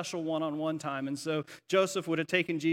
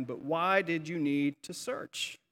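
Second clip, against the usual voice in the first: unhurried, gently puzzled question; calm, gentle, matter-of-fact. Acted. Boy Jesus answering his upset parents, calm and matter-of-fact. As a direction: answer calmly, with no fight in it. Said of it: "very matter-of-factly and calmly and gently responds".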